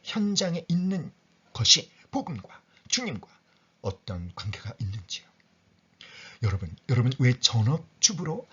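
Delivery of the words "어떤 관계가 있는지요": whispered question. Acted. Rhetorical question to the congregation.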